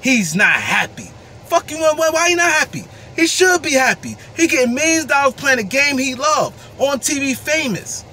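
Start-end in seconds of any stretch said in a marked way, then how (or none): 1.4-8.0 angry outburst. Real, not acted. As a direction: let it burst out, fed up and furious. Angry rant about unhappy player.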